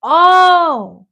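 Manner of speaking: sudden high, loud gasp of surprise; startled yelp; shocked cry; surprised oh. Real, not acted. Shocked exclamation at dinner.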